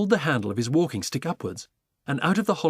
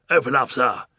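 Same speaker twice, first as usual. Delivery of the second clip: louder commanding demand; demanding Duke; 6 dB louder than usual. Acted. Duke ordering the pelican, loud command. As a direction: order it firmly. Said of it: "Duke demands again".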